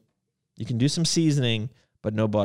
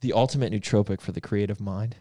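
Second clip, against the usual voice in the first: sexy voice; 6 semitones lower than usual. Pretend. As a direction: say it like a bedroom whisper. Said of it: "Why you gotta say it all sexual?".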